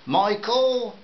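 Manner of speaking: father shouting his son's name; shouted name. A narrator's reading. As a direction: yell for the boy through the door. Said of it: "The last word was shouted".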